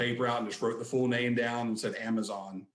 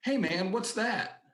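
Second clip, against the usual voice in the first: high-pitched, drawn-out rocker impression; 10 semitones higher, slower than usual. Singer spots a fan hanging back, high-voiced impression. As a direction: imitate a curious singer, pitched way up and slow. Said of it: "he's got kind of a higher pitched voice".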